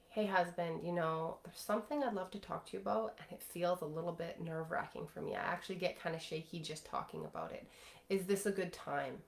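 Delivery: open and vulnerable. Shown as a demonstration. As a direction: let him hear you're opening up. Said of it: "you bring your energy in that open, vulnerable, trusting".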